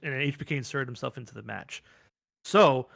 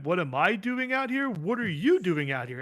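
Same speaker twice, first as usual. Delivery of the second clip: mock Rhea; 5 semitones higher than usual. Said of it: "And then Rhea goes".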